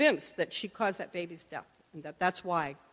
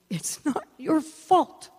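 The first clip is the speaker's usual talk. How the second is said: higher, slow and tender reassurance; gentle voice of God; 6 semitones higher, 5 dB louder, slower than usual. Retold or imitated. God telling the grieving girl: slow, gentle reassurance.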